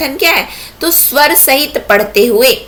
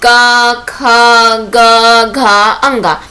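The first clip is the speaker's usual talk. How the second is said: louder and louder, letters chanted as a class; group chanting of letters, getting louder; shouted recitation; 4 dB louder, much slower than usual. Shown as a demonstration. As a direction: chant each letter like children reading in unison. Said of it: "एक साथ चिल्ला चिल्ला करके पढ़ रहे हैं".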